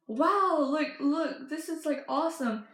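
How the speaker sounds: retold burst of wonder; excited reaction. Showing off the new poster she found, mildly excited.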